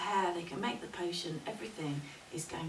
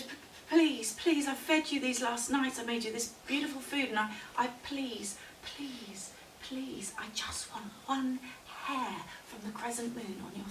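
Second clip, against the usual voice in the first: timid pleading; 4 semitones higher than usual. Acted. Small scared woman to the bear for one hair, pleading. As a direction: beg with a touch of fear. Frightened girl begs the bear.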